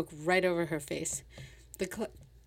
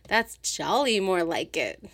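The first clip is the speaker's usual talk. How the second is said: slow, louder, sing-song manic delight; 3 dB louder, slower than usual. Acted. Sylvia gloating over the flask, slow manic sing-song. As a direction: savour it as she tips into mania. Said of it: "erupted into manic laughter".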